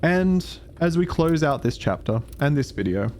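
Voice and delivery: calm documentary narrator. Acted. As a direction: narrate it like a measured storyteller. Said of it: "I'm just your narrator".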